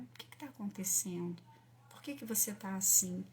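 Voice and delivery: put-on soft, hushed, patient questions to a child; gentle mother. Mother gently asks her upset child what happened, soft and tender. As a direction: coax the child to open up, quietly.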